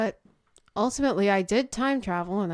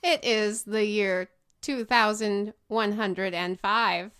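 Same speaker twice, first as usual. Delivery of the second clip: robot voice; 3 semitones higher, 6 dB louder, slower than usual. Acted. Robot character speaking.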